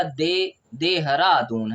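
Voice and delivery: slow "देहरादून", starting de, then the whole word; drawn-out teaching "देहरादून"; soft dental D. Shown as a demonstration. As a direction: sound out "देहरादून" with tongue-on-teeth d. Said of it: "डी को द बोल रहे हैं".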